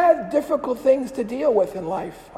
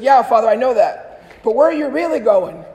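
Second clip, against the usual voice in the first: pressing question; 7 dB louder than usual. Retold or imitated. Kid presses the priest.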